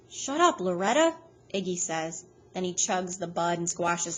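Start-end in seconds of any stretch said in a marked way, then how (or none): 0.1-1.2 louder, sharp shut-down; a touch of annoyed man; irritated snap. A narrator's reading. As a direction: cut her off impatiently. Iggy snapping at Loretta.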